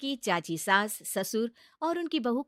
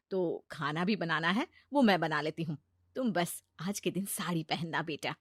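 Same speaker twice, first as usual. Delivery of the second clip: gentle mother-in-law; 2 semitones lower than usual. Acted.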